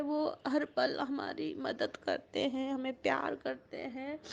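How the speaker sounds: fighting back real tears as she speaks; real tearful. Real, not acted. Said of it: "मैं थोड़ा emotional हो रही हूँ".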